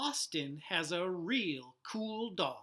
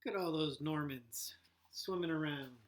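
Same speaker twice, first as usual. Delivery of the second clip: hushed whisper over the picture; 3 semitones lower than usual. Real, not acted. Teacher whispering to kids over the fishbowl picture. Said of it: "hushed aside at fish picture".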